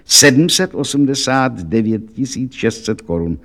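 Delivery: grave, matter-of-fact official tone; serious statement. Acted. Official gravely repeating the sum to the laundress. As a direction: state the sum soberly, like a clerk. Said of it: "řekl vážně".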